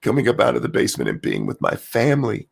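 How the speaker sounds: lightly voiced politician quote; a hint of a drawling statesman; Bill Clinton. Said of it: "I went a little Bill Clinton there".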